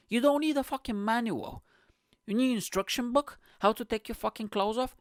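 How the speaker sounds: high-pitched comic outrage; exasperated mock rant. Comic scolding nudists who buy manuals, in exasperated high-pitched rant.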